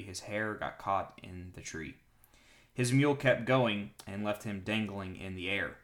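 clear, projected Bible reading; story narration. A narrator's reading. Pastor reads a battle account to listeners, clear narration. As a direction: read the account out to a congregation.

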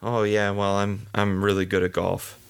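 hesitant half-hearted claim about being good at golf; wishy-washy self-doubting tone; unsure, hedging. Shown as a demonstration. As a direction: say it like you don't believe it. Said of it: "So how you are saying it".

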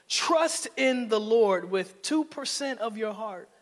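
slow, teasing misquote; mock misquote. Shown as a demonstration. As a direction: read it wrong on purpose, teasing. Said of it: "No, it says".

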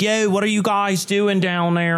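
mock Philly accent. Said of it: "If I were to play Tom Toole right now".

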